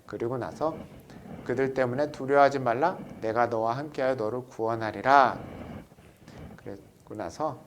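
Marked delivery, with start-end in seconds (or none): 1.4-5.4 loud, measured scripture recitation; scripture reading. Acted. Teacher leading the class in a scripture reading, loud and measured. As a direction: read it out like the pulpit Bible.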